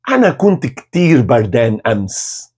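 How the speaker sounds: "Ana kunt ktir bardan ams" spoken very slowly; slow dictation pace; very slow model; slow model phrase. Shown as a demonstration. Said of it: "Repita depois de mim".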